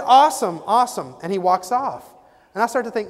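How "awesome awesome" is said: upbeat salesman. Retold or imitated. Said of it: "He said".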